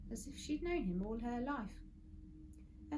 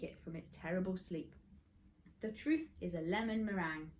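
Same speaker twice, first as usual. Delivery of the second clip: grand detective reveal; 2 semitones higher than usual. Acted. Friday revealing the brother to Mister Gum, grandly. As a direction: lay out the case with mock grandeur.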